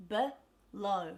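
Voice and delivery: teacher's slow, separated BELOW; syllable breakdown. Shown as a demonstration. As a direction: break BELOW in two with a schwa first. Teacher splits word into syllables.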